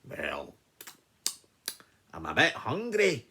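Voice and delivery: lightly voiced lion eyeing a meal; a hint of a lion, musing; hungry lion. Lion figure speaks.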